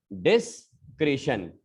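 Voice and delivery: "डिस्क्रिशन" slowly in two parts; syllable-by-syllable demo. Shown as a demonstration. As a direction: pause after DIS in "डिस्क्रिशन". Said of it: "काफी लोग सही बोलेंगे".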